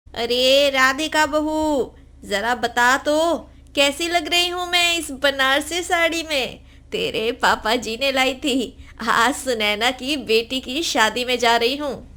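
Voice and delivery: a hint of an older mother-in-law fishing for praise; proud mother-in-law. Mother-in-law asks about sari. (हल्की सी दिखावटी सास की आवाज़)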